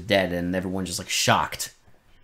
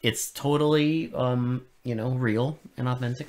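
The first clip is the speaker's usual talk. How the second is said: sarcastic praise. Real, not acted. Co-host praising terrible redneck dubbing to friend, sarcastic.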